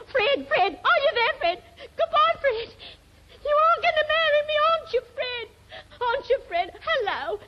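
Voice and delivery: high, frantic pleading down the phone; panicky high calling. Acted. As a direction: cry out after him in rising panic. Line cutting off, panicking.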